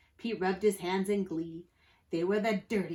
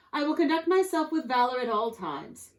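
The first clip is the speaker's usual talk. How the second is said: higher-pitched, prim would-be pirate; proper-spoken rascal; 5 semitones higher, 5 dB louder than usual. A narrator's reading. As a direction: confess it very politely.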